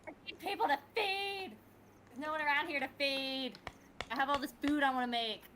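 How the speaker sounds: high, dramatic mock lament; mock wail. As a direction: cry out for someone to feed. Mock lament, raised pitch.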